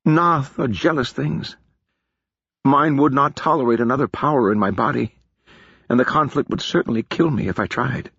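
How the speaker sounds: put-on solemn warning to a young woman; lightly voiced wise mage; Feor's voice. Feor voiced by narrator.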